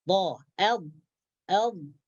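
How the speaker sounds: dhad with tongue edge pressed to upper gums; demonstrated dhad sound. Shown as a demonstration. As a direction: sound out the letter dhad on its own. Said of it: "macam mana cara membacanya".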